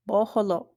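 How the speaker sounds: boholo whispered with long open o sounds; whispered model word. Shown as a demonstration. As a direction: breathe boholo, stretching each o. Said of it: "our long vowel word is the word to grow".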